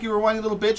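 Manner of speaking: high-pitched whiny mocking; squeaky whining imitation. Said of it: "the high-pitched, like, voice".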